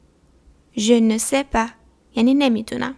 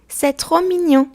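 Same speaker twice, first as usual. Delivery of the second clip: higher, louder gush over something adorable; gushing over something cute; 6 semitones higher, 5 dB louder, much slower than usual. Shown as a demonstration. Teacher showing how to react to a cute baby, gushing. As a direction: coo it like you just saw a baby.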